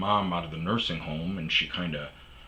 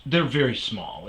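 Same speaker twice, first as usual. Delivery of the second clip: higher, louder reassuring voice; mock landlady; 5 semitones higher, 6 dB louder than usual. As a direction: brush it off quickly. Landlady smoothing things over.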